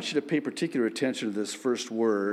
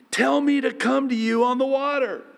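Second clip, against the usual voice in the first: eager Peter; 12 semitones higher, 4 dB louder, faster than usual. A narrator's reading. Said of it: "Peter replied".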